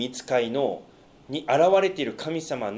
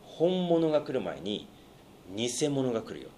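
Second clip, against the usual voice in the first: soft repeat; 5 dB quieter than usual. Shown as a demonstration. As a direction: let it sink in quietly. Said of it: "すごい大事です".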